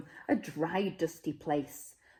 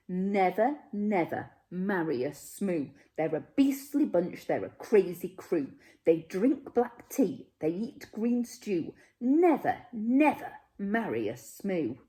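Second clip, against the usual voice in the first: louder, indignant grandparent's outburst; forbidding; 3 dB louder than usual. Acted. Grandparents forbidding the wedding to a Smoo, loud and indignant. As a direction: forbid the marriage, outraged.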